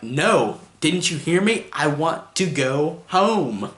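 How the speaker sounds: slow, every word pressed out one by one; enunciating little girl. Retold or imitated. Girl refusing Angela's offer, slow and over-enunciated. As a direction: talk down like a stubborn child. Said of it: "she really enunciates every word that she says".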